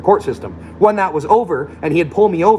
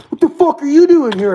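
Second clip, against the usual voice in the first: mock aggressive man; 11 semitones higher, 5 dB louder than usual. Imitating aggressive guy.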